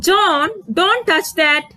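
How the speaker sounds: high, slow, firm warning; command. Shown as a demonstration. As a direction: stop him from touching it. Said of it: "That's a command".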